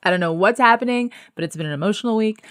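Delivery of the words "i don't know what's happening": tearful laugh. Real, not acted. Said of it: "trying not to cry".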